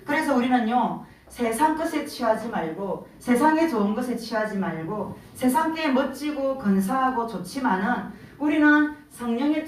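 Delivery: earnest exhortation to the congregation; preaching. Acted. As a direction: build it up and urge them on.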